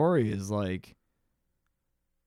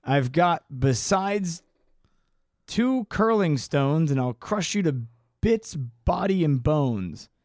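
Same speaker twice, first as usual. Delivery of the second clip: threatening big goat. Acted.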